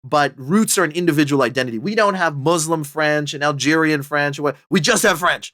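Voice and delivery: put-on a light French accent slipping into the quote; mock the French ambassador with a touch of French accent. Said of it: "you hear, like, a little French accent, like, slipping out there".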